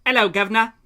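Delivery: mock British greeting; British accent. Imitating British people reacting to American food, mock British accent. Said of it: "British people reacting to American food".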